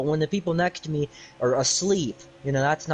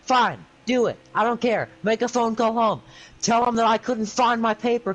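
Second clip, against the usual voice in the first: defiant retort; 3 semitones higher than usual. Retold or imitated. Defiant reply to teacher's threat.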